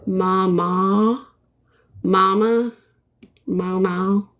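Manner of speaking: mama tried out several ways, rising on the end; trying out mama. Shown as a demonstration. Painter trying out how viewers say mama. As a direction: test the word mama over and over. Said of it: "I tend to go to".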